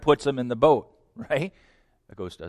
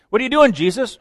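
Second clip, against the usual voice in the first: puzzled onlooker; 8 semitones higher, 5 dB louder, faster than usual. Acted. Preacher acting a puzzled onlooker.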